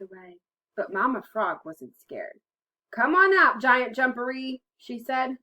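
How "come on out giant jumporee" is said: loud, raised storybook summons; calling out. A narrator's reading. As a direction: call boldly into a burrow. Mama Frog calls into the burrow.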